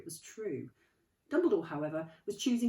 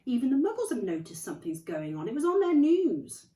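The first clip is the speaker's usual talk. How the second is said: stern McGonagall; 7 semitones higher, 11 dB louder than usual. Acted. McGonagall voiced, tutting at carelessness.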